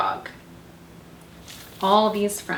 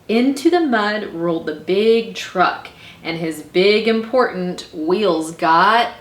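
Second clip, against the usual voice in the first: animated, drawn-out storytelling; story narration; 4 dB louder than usual. A narrator's reading. Librarian reads how the dump truck got stuck, dramatic narration. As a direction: build the trouble for young listeners.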